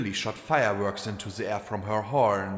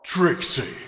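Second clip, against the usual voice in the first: gasped; 6 semitones higher, 3 dB louder than usual. A narrator's reading. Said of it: "the stallion gasped".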